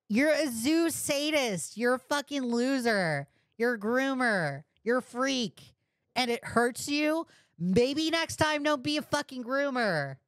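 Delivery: angry yelling. Real, not acted. Streamer berating the user on stream, high furious yell. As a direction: yell it at him in disgust.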